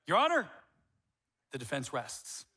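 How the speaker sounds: lightly pompous courtroom closing; mock lawyer. Husband winning an argument with wife, mock lawyer flourish. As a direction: rest your case like a smug lawyer. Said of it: "I turn into a lawyer".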